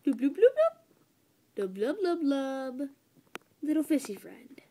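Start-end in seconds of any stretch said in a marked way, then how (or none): 0.0-2.9 fish talk. Pretend. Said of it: "I don't know what language you speak".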